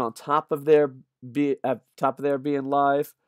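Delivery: tripping over the words; stuttering. Real, not acted. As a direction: restart the phrase, stumbling. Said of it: "stuttering here".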